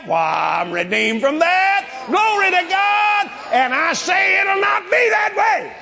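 high, sustained preacher's shout; preached declaration. Real, not acted. Preacher defying the curse before the congregation, shouted declaration. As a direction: proclaim it with drawn-out, rising force.

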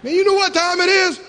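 mock grumpy neighbour shouting; annoyed neighbour. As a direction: yell down at the noise. Neighbour yelling at night.

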